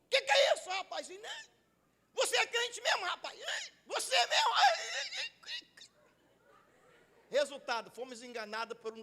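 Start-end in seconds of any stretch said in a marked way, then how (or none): 0.1-5.7 high-pitched mock outcry breaking into squeals; imitated yell. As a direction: play an incredulous friend yelping in protest. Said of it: "Aí o colega gritou assim".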